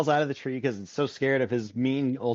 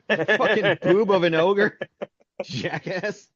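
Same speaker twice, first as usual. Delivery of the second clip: slow, louder, higher mock curse; mock cussing grandpa; 3 semitones higher, 4 dB louder, slower than usual. Grandpa cursing the ogre, slow mock angry yell. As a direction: spit the insult out slowly.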